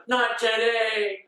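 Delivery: drawn-out heroic mock declaration; Ash. Boy stepping out of the shadows, heroic declaration. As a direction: stretch it out like a badass hero. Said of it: "comes out of the shadows like a badass".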